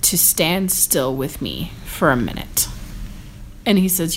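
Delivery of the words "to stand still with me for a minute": poetic quote. Retold or imitated. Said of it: "she just gets all poetic".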